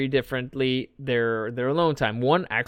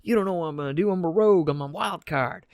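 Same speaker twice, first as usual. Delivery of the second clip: mock defiant rant; 6 semitones higher than usual.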